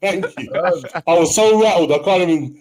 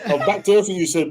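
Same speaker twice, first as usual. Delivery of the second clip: laughing; 3 semitones higher, much faster than usual. Real, not acted.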